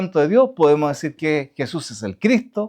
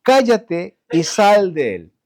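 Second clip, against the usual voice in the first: slow, firm command to the demon; stern rebuke; slower than usual. Retold or imitated. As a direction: rebuke the spirit with slow authority. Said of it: "le reprendió diciendo".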